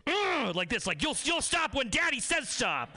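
hammed-up creepy moan, then a high demand; creepy daddy. Customer groaning at the deli lady, high and creepy. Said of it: "And then he goes".

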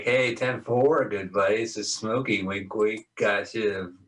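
trucker cb radio. Retold or imitated. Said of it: "is he talking C B shit? He's like".

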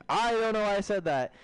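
high mock wail; acted embarrassed yelp; flustered outburst. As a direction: blurt it out high in dismay. Acting his panicked reply.

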